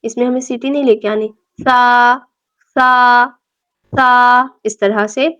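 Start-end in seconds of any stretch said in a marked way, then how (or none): 1.6-4.5 سا said softly with the tongue between the teeth, no hiss; soft tha. Shown as a demonstration. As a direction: repeat سا gently with no whistle. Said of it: "سا کو بہت نرمی سے پڑھنا ہے".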